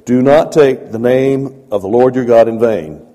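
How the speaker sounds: loud, firm commandment; God commanding. Retold or imitated. God giving Moses the commandment, loud and firm. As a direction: declare it as God's law. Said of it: "And he says".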